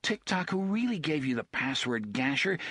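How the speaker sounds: put-on high, defiant boy's voice; a bold boy baiting the thug; taunting boy. Jake taunting Gasher before TikTok.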